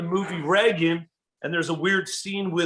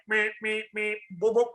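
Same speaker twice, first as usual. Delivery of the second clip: imitating corny comedy; 4 semitones higher, 4 dB quieter than usual. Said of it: "over the top".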